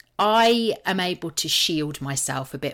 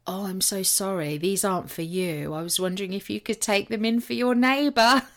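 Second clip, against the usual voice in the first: awkward apology; 4 semitones higher than usual. Retold or imitated. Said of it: "looked at me really, really awkwardly".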